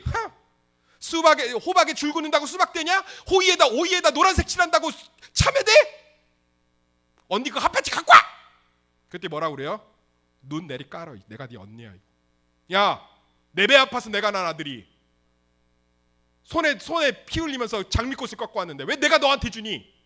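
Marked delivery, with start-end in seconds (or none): 0.1-8.2 high, loud mocking taunt; sneering younger sister. Rachel mocks her older sister Leah, shrill jeering taunt. 10.4-11.9 low, quiet put-down; cold older sister. Acted. Leah quietly silences her younger sister Rachel, low cold warning. 12.7-19.9 loud indignant sister; angry retort. Acted. Rachel shouts back at Leah over the roses, loud indignant retort.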